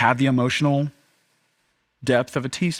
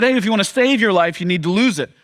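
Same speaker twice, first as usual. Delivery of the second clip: lightly voiced Jesus; 7 semitones higher, 4 dB louder than usual. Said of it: "He said".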